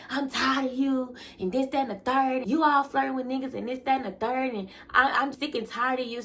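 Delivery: retold boyfriend shouting at her; mock yelling boyfriend. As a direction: ham up his angry rant.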